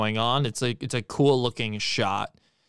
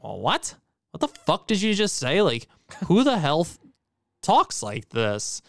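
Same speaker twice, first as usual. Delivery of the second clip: incredulous, rising to higher pitch; baffled outrage; 5 semitones higher than usual. Retold or imitated. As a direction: act stunned by bad dialogue. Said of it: "Just in a way of, like".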